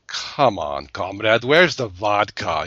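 lightly put-on Russian comrade; half-hearted Russian accent, drawn out at the end; mock Russian accent. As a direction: do a rough, joking Russian accent. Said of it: "I can't do my Russian accent".

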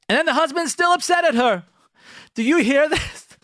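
loud, high-pitched disbelief; incredulous. Real, not acted. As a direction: exclaim it as if you can't believe it. Mock disbelief at stubborn husbands.

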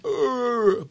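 high, soft mock groan; answering yawn call. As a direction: groan back like a distant creature. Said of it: "responds by going".

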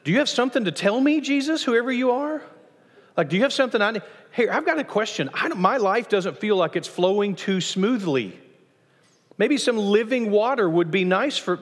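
high, eager voice of the woman at the well; imagined woman asking. Acted. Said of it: "which you would think this woman would say".

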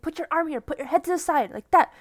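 mock coach yell. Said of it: "yell at him".

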